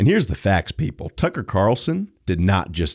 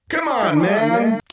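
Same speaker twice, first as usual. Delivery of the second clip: exasperated yell; 12 semitones higher, slower than usual. Acted. Exasperated catchphrase outburst.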